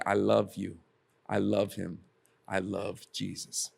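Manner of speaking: low, softening declaration of love; tender retold confession. Peter getting his chance after denying Jesus, tender retold confession.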